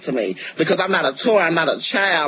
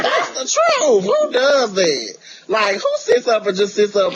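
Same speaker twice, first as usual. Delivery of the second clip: sassy; 4 semitones higher than usual. Real, not acted. Sassy high-pitched retort.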